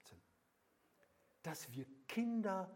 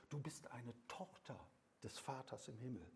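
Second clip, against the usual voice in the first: geflüstert; 6 dB quieter than usual. Acted. Intimate sermon whisper.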